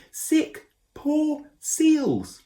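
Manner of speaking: high, loud call from below; shouting from far. A narrator's reading. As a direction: shout up, words lost in distance. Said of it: "shouting up at him".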